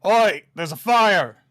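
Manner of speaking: loud high shouts of alarm; guard on the steps shouting about the fire. Retold or imitated. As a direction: yell it across the docks to raise the alarm. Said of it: "the one up on the steps goes".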